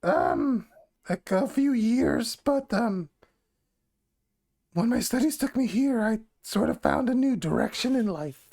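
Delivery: lightly voiced goblin woman, unhurried. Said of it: "I have to do the goblin voice".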